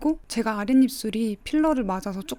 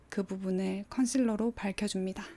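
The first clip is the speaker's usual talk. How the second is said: soft unvoiced whisper; 4 dB quieter than usual. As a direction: breathe it out in a whisper. Whispered aside.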